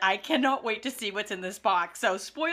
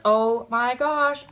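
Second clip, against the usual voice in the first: excited; 3 semitones higher, 4 dB louder, much slower than usual. Real, not acted. Repeated reaction fading.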